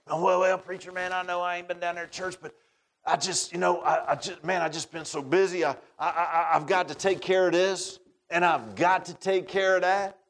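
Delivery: lightly voiced, sheepish rambling excuses; excuse-making churchgoer. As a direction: hem and haw like someone dodging church.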